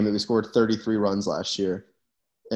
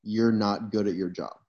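deadpan put-down; coolly matter-of-fact insult; cold and flat. Acted. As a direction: say it level, without any heat. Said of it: "really cold and flat to their face".

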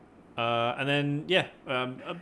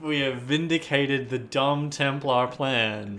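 smug villain; 3 semitones higher, 4 dB louder, slower than usual. Acted.

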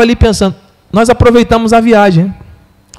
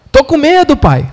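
put-on scared child; 7 semitones higher than usual.

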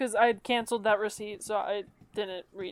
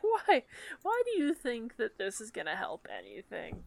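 incredulous; 3 dB quieter than usual. Retold or imitated. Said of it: "be like".

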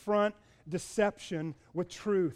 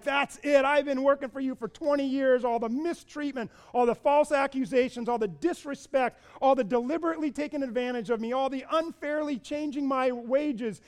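pitched up, each "all the" hammered home; fed-up rant; 6 semitones higher than usual. Retold or imitated. Jacob lays into Laban, fed-up and rising. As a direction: Jacob unloading twenty years of grievance. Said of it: "He's just like".

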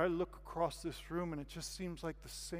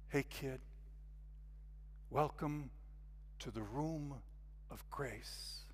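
beautiful welcoming voice; 8 dB quieter, slower than usual. Retold or imitated. Hostess welcomes a newcomer into the room, beautiful soft voice. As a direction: imitate a gracious hostess, hushed and unhurried. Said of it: "in a voice maybe as beautiful as any voice".

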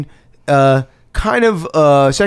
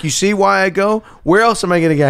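higher-pitched, mildly indignant protest; put-on exasperation, pitched up; exasperated suspect; 7 semitones higher than usual. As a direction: act out a cornered suspect, fed up. Unmasked suspect explains himself.

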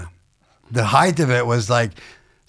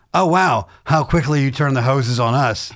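mock indignant retort; 3 semitones higher, 3 dB louder than usual. Retorting to heckler on stage.

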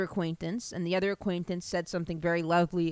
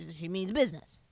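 unvoiced aside whisper; hushed aside. Real, not acted. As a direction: whisper it to the audience. Aside about the email.

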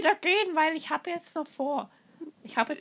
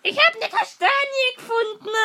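put-on whiny high kid voice; 7 semitones higher, 4 dB louder than usual. Child figure whines.

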